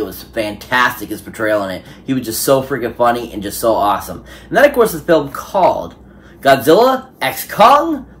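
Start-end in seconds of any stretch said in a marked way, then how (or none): 4.5-8.0 a touch of trailer announcer, higher and louder; trailer title. Pretend. Vlogger announcing the film title in a light trailer-voice build-up.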